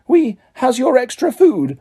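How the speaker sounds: high house-elf voice; hasty elf squeak. A narrator's reading. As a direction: hurry them out politely. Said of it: "squeaked an elf".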